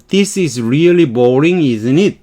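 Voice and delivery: "isn't it?" said falling; falling tag question. Shown as a demonstration. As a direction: drop the voice on "isn't it?". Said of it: "이렇게 내려가는 거예요".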